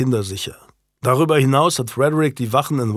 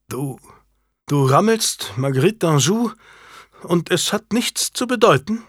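rising disbelief, last words much higher; incredulous outrage; 6 semitones higher than usual. A narrator's reading. Janet confronting her unfaithful husband, incredulous and higher. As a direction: she can't believe what she hears. Wife learns of affair.

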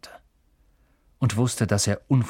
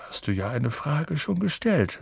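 smiling; 5 semitones higher, 4 dB quieter than usual. A narrator's reading. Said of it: "sagte Dumbledore lächelnd".

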